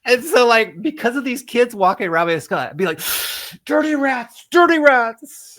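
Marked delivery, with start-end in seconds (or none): 3.6-5.6 high, slow put-on gangster drawl; old movie gangster. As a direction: ham it up like an old film tough guy. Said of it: "something from an old movie".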